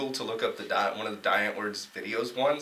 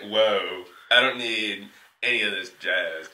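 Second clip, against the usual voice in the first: laid-back whoa; 3 semitones lower, 3 dB louder, slower than usual. Retold or imitated. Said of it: "And I said it like that, too".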